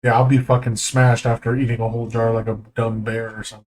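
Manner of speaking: talking through crunched ice; crunching ice while talking. Real, not acted. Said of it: "Pardon all the ice crunching sounds".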